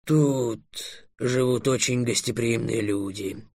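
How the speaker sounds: slow, soft, soothing; reassuring dragon. A narrator's reading. Dragon calming Trix about the borrowed sheep, reassuring. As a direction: reassure him gently, unhurried. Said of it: "успокоил Трикса дракон".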